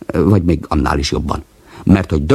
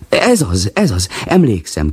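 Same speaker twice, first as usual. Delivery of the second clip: excited cry, pitched higher; exclaiming; 4 semitones higher than usual. Acted. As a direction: call it out gladly. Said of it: "kiáltott".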